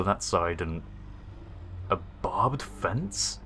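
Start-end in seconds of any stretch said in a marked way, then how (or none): 1.9-3.4 alarmed. Real, not acted. Alarmed discovering fence.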